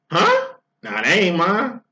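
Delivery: squeaky high huh then a flat brush-off; mock shocked denial. Man told his partner is pregnant, mock shocked denial. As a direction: play the guy dodging responsibility. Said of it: "Woman gets pregnant".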